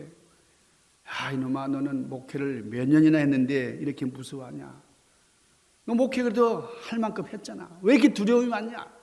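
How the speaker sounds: 갈수록 높고 세게 나무라기; 목사를 야단치는 예수의 꾸지람. Acted. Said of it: "예수님께서 아주 막 꾸짖으시는 것 같아". (점점 언성을 높이는 책망)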